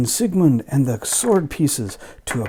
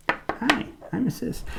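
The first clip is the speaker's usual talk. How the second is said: put-on pitched-up girl voice; high female character; high sister voice; 12 semitones higher, slower than usual. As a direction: say hi high and light.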